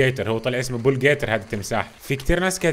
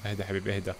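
calming; 5 semitones lower, 3 dB quieter than usual. Real, not acted. Soothing an animal in game.

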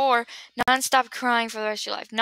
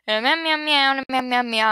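playful meowing; 2 semitones higher than usual. Pretend. Pretending to be a kitty cat, playful meows. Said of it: "I'm a kitty cat".

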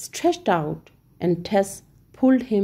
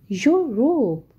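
yelled; 3 semitones higher than usual. Acted. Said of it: "yelled Asha".

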